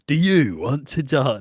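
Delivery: slow, stretched question with a swooping YOU; lightly voiced tough soap star, drawling it out; Ross Kemp impression. Attempting Grant's line to Nigel, slipping Ross Kemp impression. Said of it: "do a Ross Kemp impression".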